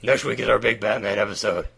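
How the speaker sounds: tired, hoarse, worn-out voice; sore voice. Real, not acted. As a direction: talk through a sore throat. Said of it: "I'm not talking like this to do an impersonation".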